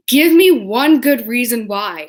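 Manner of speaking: lightly voiced challenge from mom; mock demanding mom. Mom challenging kitten-begging kids.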